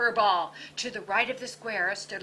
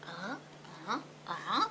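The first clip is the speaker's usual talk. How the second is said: chorus of doggies; 9 dB quieter, much faster than usual. A narrator's reading. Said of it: "all the doggies nodded".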